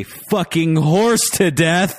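loud, high, drawn-out mock outrage; mock outraged shout. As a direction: build it into an exaggerated cry of disbelief. Acting out an outraged listener tweet.

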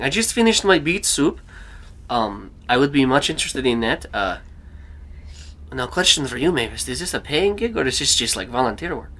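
put-on hammy Russian accent with a jumping pitch; Roman's Russian accent. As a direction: question the caller in a Russian accent. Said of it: "I mean, a Russian accent".

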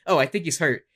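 understated remark, a mild imitation; Michael Cole. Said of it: "Michael Cole doing".

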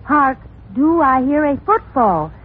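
slow, grand theatrical line reading; hammy stage actor. Acted. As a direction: overplay it like old stage drama. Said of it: "First line".

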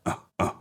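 two soft chimp "uh" noises; low-key ape imitation; imitated chimp grunts. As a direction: grunt softly like a smug chimp. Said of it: "and he's like".

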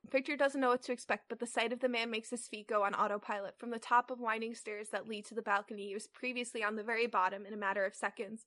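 even, measured read-aloud; story narration. A narrator's reading. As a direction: read the fanfic out steadily. Reads the fanfic aloud.

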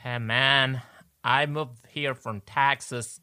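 put-on Southern accent. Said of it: "Say this phrase in a Southern accent".

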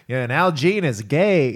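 slow, lightly voiced old man. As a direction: imitate an old-timer rambling slowly. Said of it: "old man-y".

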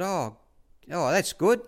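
a high, chirpy put-on trainer's voice; mock-cheerful boss dropping by; imitating Bart, breezy. Retelling Bart's breezy reply.

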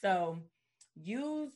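slow, sincere plea to listeners; earnest speech. Acted. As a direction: deliver it like a heartfelt appeal. Earnest address to women.

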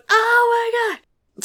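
drawn-out high frightened moan; scared wail. Retold or imitated. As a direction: wail it into a pillow. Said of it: "just going".

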